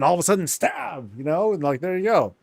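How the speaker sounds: spring the surprise attack; sudden stab. Pretend.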